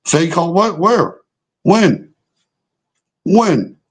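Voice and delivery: where, when, exasperated and scornful; incredulous disbelief. Real, not acted. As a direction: fire back mock-baffled questions at the chat. Mocking fake-call complaints in chat.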